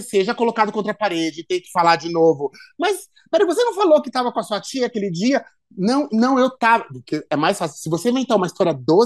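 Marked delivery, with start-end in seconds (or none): 2.8-5.4 lightly acted challenge, higher and quick; mock interrogation. Questioner catching a liar out on the aunt alibi, mock interrogation. 5.8-6.8 lightly acted protest, pitched higher; mock defensive denial. Cornered liar answering the questioner, mock defensive denial.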